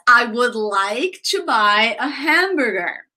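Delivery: slow, evenly spaced model sentence; slow, careful demonstration for a learner; teacher's model sentence. Retold or imitated. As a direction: say it slowly like a language teacher. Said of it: "the teacher says".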